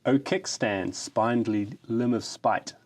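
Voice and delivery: grand, hammed-up ode reading; mock-solemn ode to a kickstand; mock-heroic poem recital. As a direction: declaim it like solemn verse. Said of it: "something I've developed specially to celebrate".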